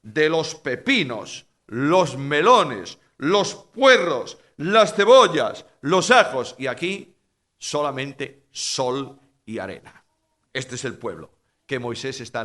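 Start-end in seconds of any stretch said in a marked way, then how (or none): 0.0-6.6 slow, louder list of foods, each one relished; savouring list. Acted. Preacher voicing the craving people, slow and savouring. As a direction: drag out every food, mouth watering.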